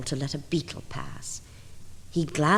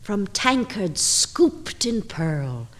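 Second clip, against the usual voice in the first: louder and louder, climbing high at the end; rapturous exclaiming; 4 semitones higher, 6 dB louder than usual. Acted. Reciting the drunken-bee poem to listeners, swelling to a loud, high, rapturous finish. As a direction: let the tipsy joy swell until it bursts.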